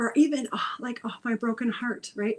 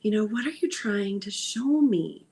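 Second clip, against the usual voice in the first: mild frustration at the body. Acted. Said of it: "a little bit of dialogue of".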